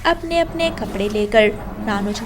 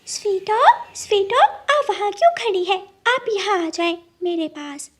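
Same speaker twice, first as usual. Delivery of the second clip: higher, calling across the distance; 9 semitones higher than usual. Acted. Gudiya calling the goat away from the crow. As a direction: call her friend over from afar.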